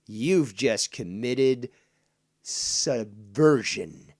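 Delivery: loud heated tirade; angry rant. Real, not acted. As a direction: hammer it home angrily.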